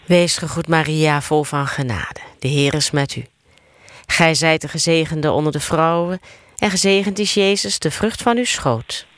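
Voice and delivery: steady chant-like Hail Mary; prayer recitation. Real, not acted. Leading the Hail Mary for others to answer, steady prayer recitation. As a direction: recite in an even, practised cadence.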